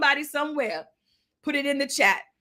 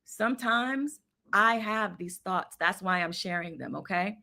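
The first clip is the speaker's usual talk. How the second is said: confessional hush; 6 semitones lower, 7 dB quieter than usual. Real, not acted. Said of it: "I'm gonna confession session".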